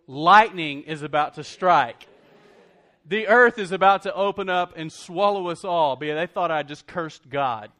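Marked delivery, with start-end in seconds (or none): 0.0-6.0 mock dread. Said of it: "they had to be thinking".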